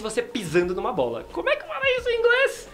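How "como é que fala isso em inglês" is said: laughing. Real, not acted. Laughing high voice asking.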